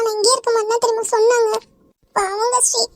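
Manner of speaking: weep over the daughter; crying. Acted. Mother pities her taken daughter, crying. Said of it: "நீ அழுவாத".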